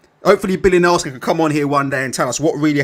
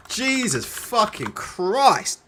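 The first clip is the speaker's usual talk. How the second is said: exasperated groan; 2 semitones higher, 3 dB quieter, much slower than usual. Real, not acted. Streamer despairing at the fight card, slow exasperated drawl. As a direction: stretch it out slowly in weary disbelief. Disbelief recalling Matchroom fight camp.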